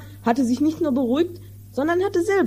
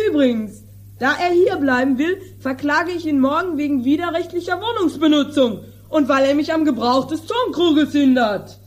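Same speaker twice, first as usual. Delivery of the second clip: a higher, agitated stop-start voice of a furious farmer; irate landowner; 4 semitones higher, 3 dB louder than usual. Acted. Landowner fuming at the mended jar, agitated and higher. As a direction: sputter with outrage over the broken jar. Don Lollo plots to sue.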